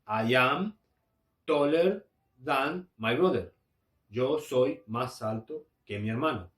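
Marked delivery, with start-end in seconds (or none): 0.1-3.5 slow, deliberate English example; slow model sentence. Shown as a demonstration. Teacher reads the English example to students, slow and deliberate. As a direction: spell it out slowly for learners. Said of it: "voy a decir".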